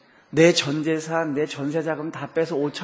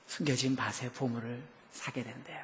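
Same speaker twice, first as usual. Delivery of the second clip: ordinary delivery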